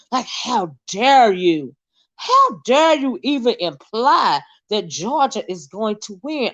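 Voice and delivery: slow, weighty affronted delivery; slowly scandalized; mock indignation. Real, not acted. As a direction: draw out each word as if deeply offended. Mock indignation over rival team.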